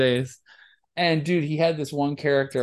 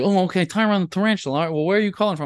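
radio host voice; 4 semitones higher, much faster than usual. Retold or imitated. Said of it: "I was like".

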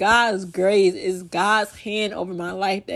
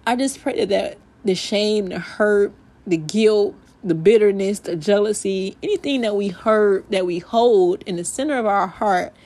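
heartfelt prayer. Acted. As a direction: pray over the listeners. Leads a closing prayer.

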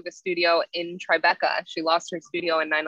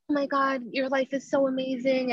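gushing; 8 semitones higher than usual. Retold or imitated. Students gushing.

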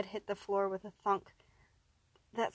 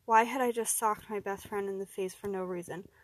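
ordinary delivery, nothing marked

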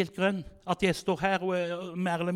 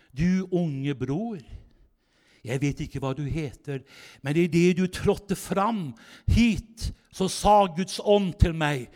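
slow solemn prophecy; slower than usual. Retold or imitated. Preacher prophesies over kneeling youth.

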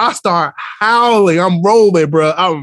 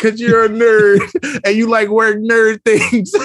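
slow, higher imitated kid taunt; sassy fifth grader; 5 semitones higher, slower than usual. Student mocks teacher as a nerd, imitated sass. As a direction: drag out the taunt like a child, laughing through it. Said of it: "she got mad attitude".

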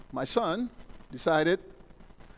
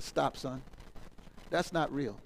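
much lower and softer, hushed; hushed fatherly aside; 8 semitones lower, 11 dB quieter than usual. Retold or imitated. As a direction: warn the son quietly. Father tells son ticket unreal.

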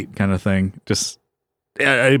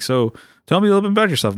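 mock chirpy manager; 9 semitones higher, faster than usual. New manager asks him.

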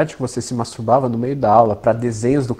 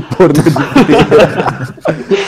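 laughing; 2 semitones higher, 6 dB louder, slower than usual. Real, not acted. Teasing friend, laughing.

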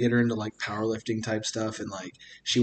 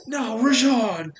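slow, high, loud mock cry of despair; drawn-out hammed-up anguished shout; Duke; 13 semitones higher, 7 dB louder, much slower than usual. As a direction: wail the name out like a tormented toy. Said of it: "he sees Rajon's face".

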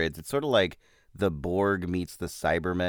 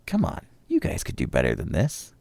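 exasperated aside to the actors; 2 semitones lower than usual. Retold or imitated.

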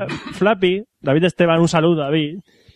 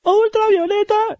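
surprised; much slower than usual. Real, not acted. Realizing what the mystery light is.

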